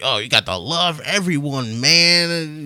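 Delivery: stoned hippie voice. Retold or imitated. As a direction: drawl it like a tree-hugging hippie. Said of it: "he sounds like a crazy ass hippie dude".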